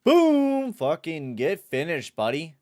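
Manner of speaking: sudden high yell that settles into a gloat; excited shout. Real, not acted. Gamer yelling at his player's hit, excited shout. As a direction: burst out at the hit, then jeer. Big hit in hockey game.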